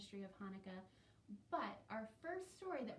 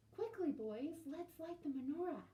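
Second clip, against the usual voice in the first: high, quick, excited; eager big sister; 7 semitones higher, 3 dB louder than usual. Acted. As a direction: rush the brothers to the menorah. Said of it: "Sadie excited to brothers".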